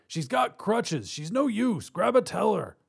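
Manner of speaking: high, exasperated call; shouted. A narrator's reading. Robber by door to partner, exasperated shout. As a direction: urge your partner to change plans. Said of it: "Congo shouted from beside the door".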